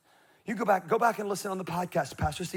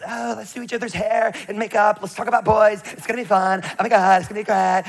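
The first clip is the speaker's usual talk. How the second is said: lightly voiced excited girls; 2 semitones higher, 4 dB louder than usual. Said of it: "the goal of the girls' slumber party is".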